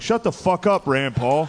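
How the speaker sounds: high-pitched mock heckle; imitated crowd jeer. Debate crowd telling a candidate off, high mock jeer. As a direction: jeer like a hostile audience. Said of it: "the whole crowd was like".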